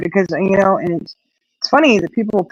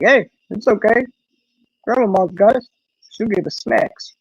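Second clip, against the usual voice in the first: higher, soothing buddy dog voice; Lou's voice; 4 semitones higher than usual. Pretend. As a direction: reassure your friend as a dog. Lou the dog comforts Zeke.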